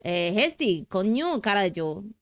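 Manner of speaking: badly faked Mexican accent drifting into Slavic; Slavic-tinged Mexican accent. Streamer pleading as a drama character, mock Slavic-Mexican accent. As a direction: attempt Mexican, land halfway to Slavic. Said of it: "Slavic Mexican".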